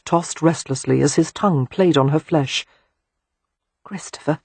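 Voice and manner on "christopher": trembling voice. Acted. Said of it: "her voice was trembling".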